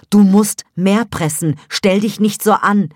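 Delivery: lauter, schärfer, höher angeschrien; brüll sie ungeduldig an; Hebamme schreit. A narrator's reading. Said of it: "schrie dich an". (laut, ungeduldig, höher schreiend)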